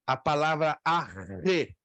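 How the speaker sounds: slow, drawn-out "arre" with a rolled R; Greek rho demo. Shown as a demonstration. Teacher drawing out "arre" for students. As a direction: spell out "arre" slowly for the class, rolling the R. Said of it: "ela tem o som de R".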